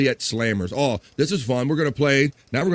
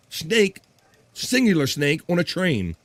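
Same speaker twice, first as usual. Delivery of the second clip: SNAKE and SINGULAR set apart by pauses, higher pitch; emphatic correction; 4 semitones higher, slower than usual. Real, not acted. Host teasing one snake, not snakes on a plane, emphatic correction. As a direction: land on "snake", pause, then stress "singular snake".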